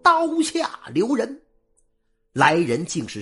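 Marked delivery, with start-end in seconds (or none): 0.0-1.4 high, slow long shout across the field; 拖长声音高喊; loud call. A narrator's reading. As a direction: stop the execution with one long cry. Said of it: "有人高喊一声".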